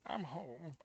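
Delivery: soft whisper into her hair. A narrator's reading. Holding the crying girl close, a tender whisper. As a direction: breathe it out, barely audible. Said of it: "I whisper into it".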